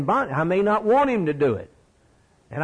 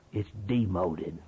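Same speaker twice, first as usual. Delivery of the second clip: "It's demoted" said softer and slower, sinking low; quiet slow repeat; 9 semitones lower, 7 dB quieter than usual. Shown as a demonstration. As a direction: let "It's demoted" fall away quietly.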